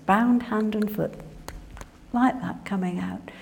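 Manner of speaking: normal talking voice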